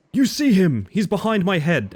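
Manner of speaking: high, loud burst of excitement; real excited squeal of words, easing slightly; excited pointing-out. Real, not acted. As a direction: break off, thrilled to show someone what you spotted. Excitedly pointing out someone behind her.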